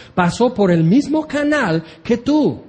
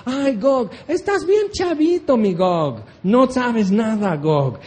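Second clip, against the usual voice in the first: mocking God; 4 semitones higher, slower than usual.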